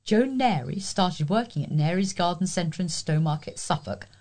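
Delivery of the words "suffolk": usual speaking voice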